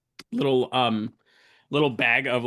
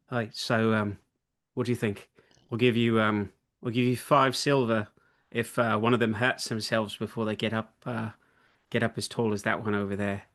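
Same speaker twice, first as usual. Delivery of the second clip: Frederick. Acted. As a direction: lean in with a discreet, slightly hushed proposition. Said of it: "Frederick leans over and goes".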